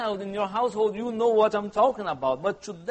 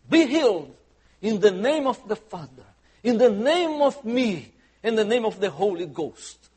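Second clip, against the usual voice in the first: TV healer; 5 dB louder than usual. Retold or imitated. TV faith healer image.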